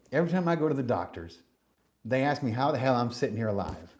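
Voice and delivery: put-on second try at a Southern accent; lightly put-on Southern accent; thick Southern accent. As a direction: imitate an older man's Southern talk, briskly. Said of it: "Let me try again".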